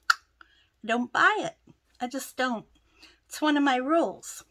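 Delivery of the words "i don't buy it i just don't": hushed, unvoiced confession; whispering. Real, not acted. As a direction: drop to a breathy whisper. Firm rule, whispered.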